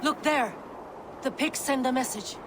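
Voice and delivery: high-pitched alert to the others; urgent call-out. Acted. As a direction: call out what you have spotted. Calling out a sighting.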